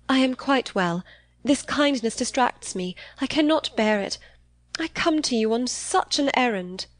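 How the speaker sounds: put-on high-pitched, distressed young lady; agitated. A narrator's reading. Eleanor refusing Catherine's kindness, agitated. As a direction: speak high, as if struggling to get it out. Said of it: "her manner greatly agitated".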